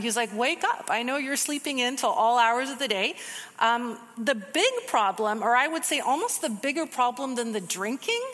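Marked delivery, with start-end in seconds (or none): 0.3-3.1 teasing. Retold or imitated. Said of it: "God is kind of teasing them".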